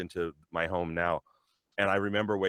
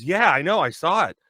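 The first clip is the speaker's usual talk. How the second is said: retold excitement; 7 semitones higher, 8 dB louder than usual. Retold friend's excited reply.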